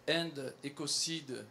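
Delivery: English words in a French accent. Real, not acted. Speaker spelling out a petition's web address, French accent. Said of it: "Je fais l'accent français".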